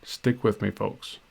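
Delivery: light mock radio announcer. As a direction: play a hammed-up DJ, lightly. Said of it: "I could try to talk like a radio announcer".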